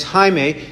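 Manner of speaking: Jaime with its J as an H; Spanish pronunciation. Shown as a demonstration. Preacher confirms the Spanish name, Jaime pronounced "HI-may". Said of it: "they pronounce it like an H".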